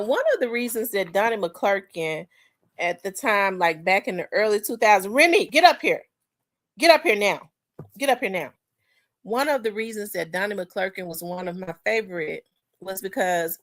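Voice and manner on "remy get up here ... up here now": raised, higher calling voice; sharp rise to summon someone. Real, not acted. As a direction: break off to call Remy up, louder and higher. Calls Remy over mid-sentence.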